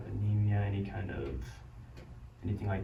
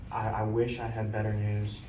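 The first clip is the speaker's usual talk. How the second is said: doctor bad news. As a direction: break the news gently and kindly. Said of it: "a beneficial way of delivering bad news".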